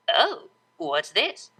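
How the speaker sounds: slow sly teasing; devious tease. Acted. DJ finding her friend's ticklish spot, slow and sly. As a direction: savor the discovery, slowly.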